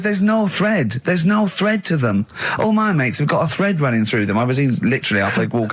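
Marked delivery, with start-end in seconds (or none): 0.0-4.4 higher, slow imitating complaint; lightly voiced imitation of a pal; mock Ricky. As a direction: mimic a friend fussing over your mates. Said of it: "He goes".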